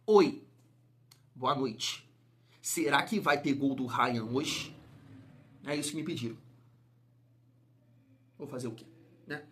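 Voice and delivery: low, hushed contract-mandated greeting; a deadpan hushed hello; mock low intro voice. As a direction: drop the voice way down and murmur the opening. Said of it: "tenho que iniciar todos os vídeos dessa forma".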